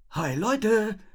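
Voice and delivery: cheerful sing-song hello; bright singsong hi to the gang; chirpy greeting. A narrator's reading. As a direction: trill it happily. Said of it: "trällerte er vergnügt".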